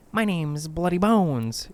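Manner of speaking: high, slow campfire-monster voice; menacing bogeyman. Acted. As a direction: draw out the scary name. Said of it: "Art leaned in".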